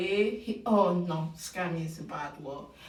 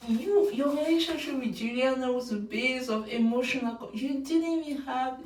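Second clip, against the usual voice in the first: higher, louder indignant telling-off; mock scolding; 4 semitones higher, 3 dB louder than usual. Fan scolding the Bachelor for dumping Juliana, indignant. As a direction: lecture him like a betrayed friend. Scolding Grant in imagined reply.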